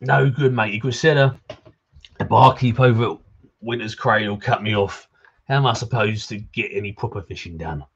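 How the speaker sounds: lightly voiced drunk pirate accent. Drunk old fisherman grumbling to a visitor, light pirate accent. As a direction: put on a slight pirate accent. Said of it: "you gotta do that pirate accent".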